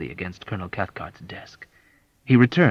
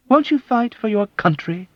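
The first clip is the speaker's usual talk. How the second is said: much higher, louder mock of Cathcart's harshness; mock harsh self-righteous; 14 semitones higher, 7 dB louder than usual. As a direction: parody the blustering colonel. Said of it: "emulating Colonel Cathcart's harsh, self-righteous tone".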